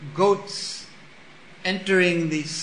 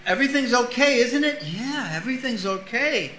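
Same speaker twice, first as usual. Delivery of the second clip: much higher, forced little laugh; nervous goat; 7 semitones higher than usual. Retold or imitated. Frightened goat asking the herd, high and laughing nervously. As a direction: reassure yourself while trembling. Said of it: "Everyone shakes".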